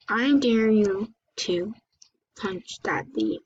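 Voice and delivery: slow secret whisper; slow conspiratorial whisper. Pretend. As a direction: hush it like a sneaky dare. Kid dares himself, whispered.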